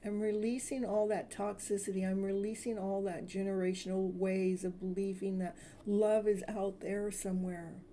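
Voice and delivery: soothing self-love meditation; guided affirmation. Acted. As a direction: lead the listener through release. Leads healing affirmations.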